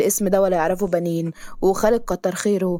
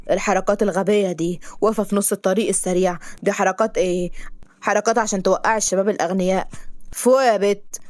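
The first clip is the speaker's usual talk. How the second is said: raised voice, scolding hard; loud angry scolding. Acted. Driver shouting at the girl who blocked the road. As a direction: tell her off loudly. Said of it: "بصوت عالي".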